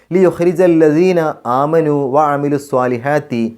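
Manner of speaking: slow, drawn-out chanted recitation; measured Quranic chant. Shown as a demonstration. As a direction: recite it slowly with tajweed.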